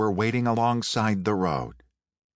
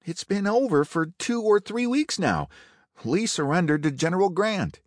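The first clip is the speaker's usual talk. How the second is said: guard's voice; 10 semitones higher than usual. A narrator's reading. Guard explains surrender.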